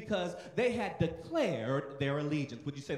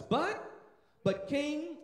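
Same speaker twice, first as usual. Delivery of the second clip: raised defiant plea; 8 semitones higher, 3 dB louder, much slower than usual. Acted. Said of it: "they responded simply by saying".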